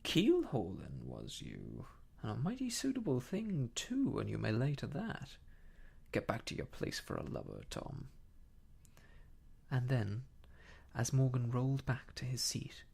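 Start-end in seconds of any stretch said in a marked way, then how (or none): 0.0-8.1 sardonic, drawled dismissal; scornful echo. Acted. Silver scornfully echoes and dismisses Morgan.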